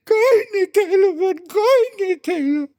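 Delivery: high, wailing sob-voice; mock crying. The ant widow sobbing to the mourners, high wail. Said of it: "એટલે કીડીબેન રડે".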